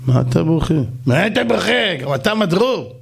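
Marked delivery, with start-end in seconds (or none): 1.1-2.0 higher, pained echo of the question; distraught king repeating it; anguished king. Acted. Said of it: "המלך יושב ובוכה". 2.0-3.0 higher, faster anguished lament; mild hammed-up weeping king; distraught king. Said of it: "המלך יושב ובוכה".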